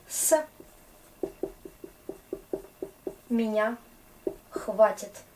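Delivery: с, меня, хватит each said apart with long pauses; slow word by word. Shown as a demonstration. Teacher to class, breaking down с меня хватит slowly.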